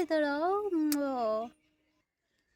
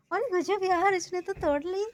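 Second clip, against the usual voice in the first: delighted surprise; 5 semitones higher than usual. Real, not acted. Calf breaks the roti.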